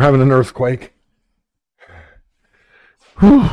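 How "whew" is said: breathless exhale. Real, not acted. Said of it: "I'm a little out of breath".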